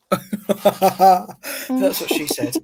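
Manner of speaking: slow, through held water, laughing; fighting a laugh with water held; water held in mouth. Real, not acted. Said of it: "hold water in my mouth".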